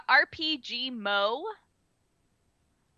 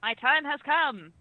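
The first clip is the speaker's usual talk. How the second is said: tin can voice; 5 semitones higher, slower than usual. Real, not acted. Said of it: "you sound like you're in a tin can".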